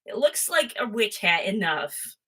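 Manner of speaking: usual speaking voice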